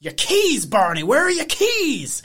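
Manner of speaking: loud, high-pitched frantic questioning; hammed-up upset sheriff, voice swooping up on "keys"; Christopher Lloyd. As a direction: yell it like a frantic movie eccentric. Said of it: "you became Christopher Lloyd there".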